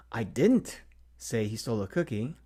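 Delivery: whispered, didnt stressed; stress on DIDN'T. Shown as a demonstration. Teacher demonstrating stress on didn't in a whisper. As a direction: breathe it out, hitting didnt. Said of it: "inflect each word in that sentence".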